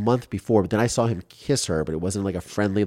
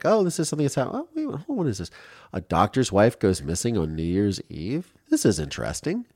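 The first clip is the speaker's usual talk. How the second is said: imitating the detective; 3 semitones higher, 3 dB quieter than usual. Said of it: "just kinda like".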